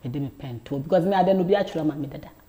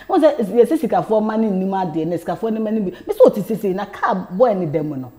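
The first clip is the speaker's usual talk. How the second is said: laughing; 4 semitones higher, 3 dB louder than usual. Real, not acted. Laughing while telling the story.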